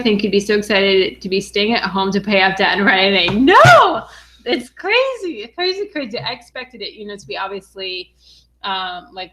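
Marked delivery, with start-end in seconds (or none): 3.4-4.1 high, loud thrilled "No!"; excited no. Real, not acted. Asked if she ever expected this. 4.5-6.2 excited gushing. Real, not acted. Gushing over paying off debt.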